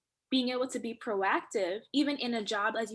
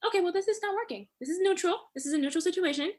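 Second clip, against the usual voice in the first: higher-pitched, matter-of-fact self-talk; neutral, open self-talk; 5 semitones higher, 3 dB louder than usual. Acted. Woman talking herself past a failed method, neutral and open. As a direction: lift it lightly, open to possibilities. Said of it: "You can hear the different tone in her voice".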